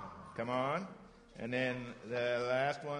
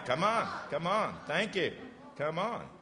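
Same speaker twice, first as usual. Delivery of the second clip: amused drill; 5 semitones higher than usual. Shown as a demonstration. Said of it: "That's a good one".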